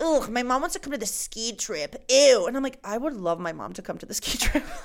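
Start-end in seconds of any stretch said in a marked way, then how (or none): 0.0-2.5 loud, mean, disgusted sneer, acted. Describing friends who were so mean, the speaker mimics them: imitating mean disgusted friends. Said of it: "They're like".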